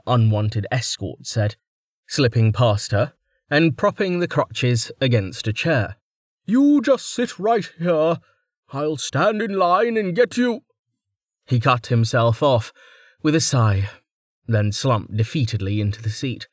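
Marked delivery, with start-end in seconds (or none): 6.4-10.6 coaxing minder voiced high; a weary minder coaxing her gently. A narrator's reading. Minder coaxing a stubborn patient to sit.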